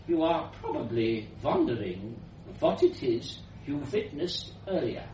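lightly voiced old woman with a foreign accent; elderly foreign woman. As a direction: speak softly as a slightly foreign elderly lady. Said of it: "This was an elderly woman's voice, powerful and slightly foreign".

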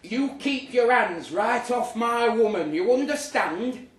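hammed-up Clint Eastwood growl of a threat; Clint Eastwood tough guy. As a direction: puff up like a cowboy hero warning off a rival. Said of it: "like Clint Eastwood".

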